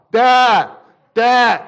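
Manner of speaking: loud, high whiny calls for Mom; a kid turning to Mom when Dad ignores him; nagging child. Acted. Child calling Mom from the back seat, loud whine.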